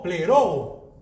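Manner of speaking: pleroo repeated, first O stressed; careful demo of pleroo; Greek word pleroo. Shown as a demonstration. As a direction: pleroo said again, weight on the first O. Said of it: "Es acento en la primera O".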